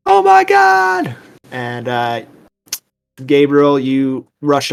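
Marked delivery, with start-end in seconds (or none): 0.1-1.2 high, drawn-out scream; long, loud child's shriek. Acted. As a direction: scream it slowly in terror. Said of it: "Abby just starts screaming".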